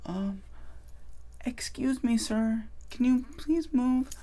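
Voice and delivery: high, very soft, hesitant plea; timid request. Acted. Shy person asking someone in line to move, timid. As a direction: squeak it out meekly, afraid to bother anyone. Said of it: "instead of being like".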